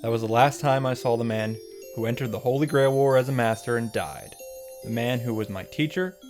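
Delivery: solemn flashback narration. Acted. Recapping a father's farewell to his daughter, solemn narration. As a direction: recount the backstory with mock gravity.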